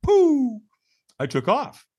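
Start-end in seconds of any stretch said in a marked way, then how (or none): 0.0-0.6 high-pitched mouthed "pooh" launch sound; drawn-out verbal whoosh; whoosh noise. Retold or imitated. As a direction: imitate someone shooting off. Imitates himself taking off.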